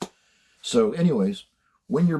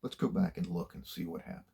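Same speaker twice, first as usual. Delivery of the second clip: softer, calm and easy; retold calm; 6 dB quieter than usual. Supervisor coming in after the yelling, calm and soft. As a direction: imitate a supervisor quietly calming things down. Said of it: "He comes in very calm".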